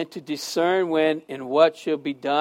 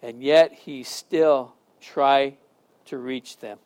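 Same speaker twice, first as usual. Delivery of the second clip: prayer. Acted. Closing prayer.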